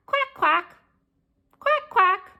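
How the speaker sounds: high, short duck quacks; playful high quack imitation. Shown as a demonstration. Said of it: "Can you quack like a duck?".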